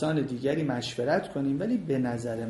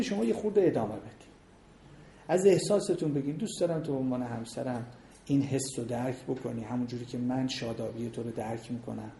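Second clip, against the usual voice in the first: softer, sincere words to a spouse; tender demo; 5 dB quieter than usual. Shown as a demonstration. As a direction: show how to speak kindly to your husband. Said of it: "ورودش باید اینجوری باشه". (نمایش لحن صمیمی و آرام با همسر)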